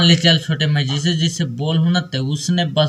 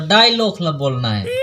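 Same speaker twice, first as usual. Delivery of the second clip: heated shouting. Acted. Brothers quarrel over the dialogue, shouting. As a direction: yell back in frustration.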